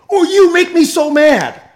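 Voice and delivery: a preacher mimics a driver stuck behind tourists, hammed-up exasperation; mock frustrated driver. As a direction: play the irritated driver, exaggerated. Mock angry driver in traffic.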